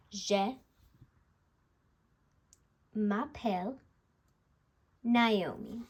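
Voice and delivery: Je m'appelle in French, each part spaced out with pauses; French pronunciation. Shown as a demonstration. Teacher spelling out her French introduction for viewers. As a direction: lay out Je m'appelle Naomi piece by piece. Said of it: "Let me spell it out here".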